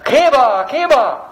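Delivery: high two-note bird cry, falling each time; birdcall imitation. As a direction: call it out like a bird. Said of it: "Some of the birds are saying".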